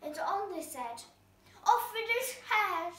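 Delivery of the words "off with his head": higher, louder royal command; queen's shout. Acted. Queen ordering the cat beheaded, loud shout. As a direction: bark the order at the king.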